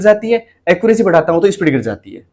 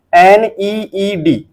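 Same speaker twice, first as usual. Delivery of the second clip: very slow, letter by letter; slow spelling; much slower than usual. Shown as a demonstration. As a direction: drag out each letter again. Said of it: "तो नीड कैसे पढ़ेंगे?".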